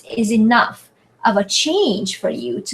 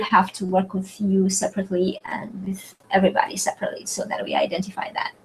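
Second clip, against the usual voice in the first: whispered aside; 2 semitones lower, 6 dB quieter, faster than usual. Real, not acted. Quiet aside to student.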